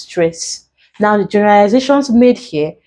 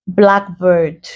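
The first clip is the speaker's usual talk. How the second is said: BLACK stressed in blackbird; stress on first syllable. Shown as a demonstration. Teacher giving a compound word example, BLACK stressed in blackbird. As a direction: put the weight on BLACK, bird lighter. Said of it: "stress them on the first syllable".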